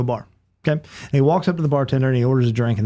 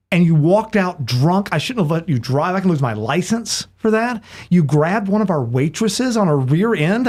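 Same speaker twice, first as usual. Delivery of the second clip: slow, higher-pitched exasperated telling-off; acted scolding; 4 semitones higher than usual. Bartender refusing a bear over last Thursday, acted scolding. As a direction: list the offences with mounting exasperation.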